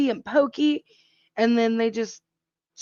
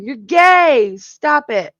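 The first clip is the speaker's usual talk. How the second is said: mock yell; 4 semitones higher, 7 dB louder, slower than usual. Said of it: "I yell at my girl cats".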